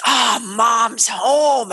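put-on joyful kid. Kids greeting mom, acted.

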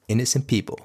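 "Innocent people" set apart as a firm reminder; emphatic repeat. Real, not acted. Podcaster driving home who the term covers, emphatic "Innocent people". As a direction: stress "Innocent" and let "people" fall. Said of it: "I emphasize the words innocent people".

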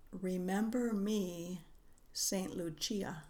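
put-on slow, lightly Italian-accented voice. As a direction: say it slowly with a hint of Italian. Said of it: "it spoke with an accent".

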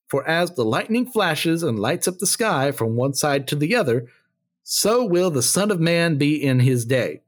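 measured, declarative Bible reading with lifted pitch; Scripture reading. Acted. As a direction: read it out to a congregation as Scripture. Reads Scripture aloud.

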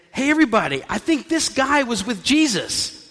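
pointing someone out to the crowd; calling out to a crowd. Acted. Woman alerts the crowd about Peter.

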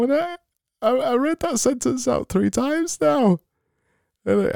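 high, brightly put-on cheer; over-the-top happy host; fake happy voice. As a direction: beam through every word. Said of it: "happy people sound like".

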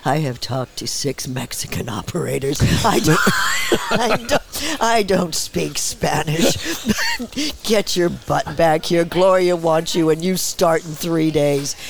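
loud, slow, emphatic mock scolding; exasperated agent. Agent scolding actress over the phone, exasperated. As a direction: lay down the law, word by word, half laughing.

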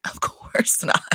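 breathy whisper, twice over; whispered aside. Real, not acted. Whispering to her viewers that she doesn't agree. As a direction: hush it like a guilty confession.

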